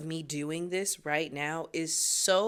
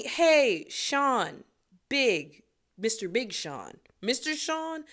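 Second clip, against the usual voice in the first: excited; 3 semitones higher, slower than usual. Real, not acted. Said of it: "addressing a rapper directly".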